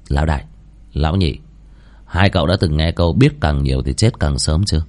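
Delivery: lightly voiced low, stern student; stern roommate. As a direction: keep it low and measured.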